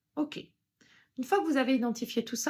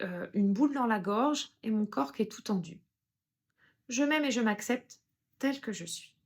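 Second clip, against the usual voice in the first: EFT setup phrase. Shown as a demonstration. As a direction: say it like a calm self-accepting mantra. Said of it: "on dit une petite phrase".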